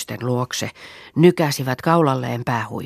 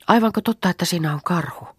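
amazed question; 6 semitones higher, faster than usual. Acted. Girl amazed the bear is there.

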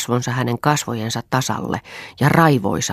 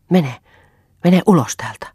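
louder, higher command to get out; angry order; 5 semitones higher, 6 dB louder than usual. Acted. Husband ordering his wife out of the room, shouting. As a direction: drive her out the door.

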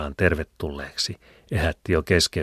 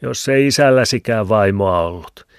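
a whiny, louder needling voice; 5 semitones higher, 7 dB louder than usual. A narrator's reading. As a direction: whine it at him. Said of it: "kitisevällä äänellä". (kitisevä ääni)

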